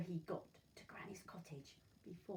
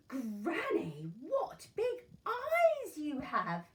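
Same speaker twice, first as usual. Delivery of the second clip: put-on frightened girl; 8 semitones higher, 11 dB louder, much slower than usual.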